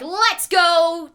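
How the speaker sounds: loud, high, insistent; eager let's go. Acted. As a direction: pull him along eagerly. Fortunato grabs narrator's arm.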